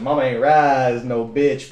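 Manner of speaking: slow, deliberate proclamation; drawn-out catchphrase. Retold or imitated. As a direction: say it slowly, defiant. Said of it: "an inside joke".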